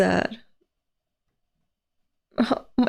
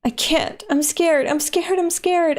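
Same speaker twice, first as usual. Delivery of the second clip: higher, lightly acted frightened plea; mild fear; 6 semitones higher than usual. Reading Asa's panicked confession aloud, mild fear. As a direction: read it as a mildly scared plea. Reads scared character's lines aloud.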